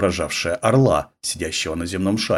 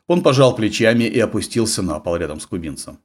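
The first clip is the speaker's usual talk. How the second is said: ordinary delivery, nothing marked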